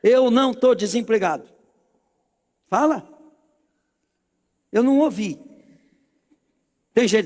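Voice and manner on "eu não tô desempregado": mildly raised, emphatic declaration; loud declaration. Shown as a demonstration. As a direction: declare it firmly for the crowd to echo. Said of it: "fala bem alto".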